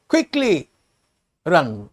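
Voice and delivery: mildly shouted storybook alarm; urgent shout. Acted. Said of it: "shouts the town mouse".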